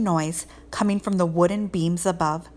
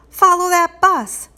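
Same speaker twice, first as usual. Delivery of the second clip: shouting; 11 semitones higher, 8 dB louder than usual. Acted. Urgent call to the driver.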